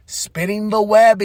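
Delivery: slow, lifted voice for effect. Retold or imitated. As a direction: draw it out high and teasing. Repeats the phrase, raised.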